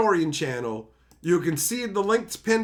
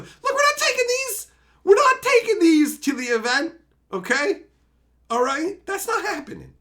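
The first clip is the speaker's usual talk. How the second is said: mock stern refusal; 10 semitones higher, 3 dB louder than usual.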